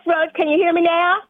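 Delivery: to someone hard of hearing. Real, not acted. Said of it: "Can you speak up, please?".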